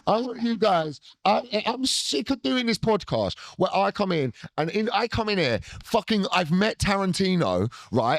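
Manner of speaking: a hammed-up, indignant Tarantino rant; a playful Tarantino tirade at his co-host. Ranting at co-host in character.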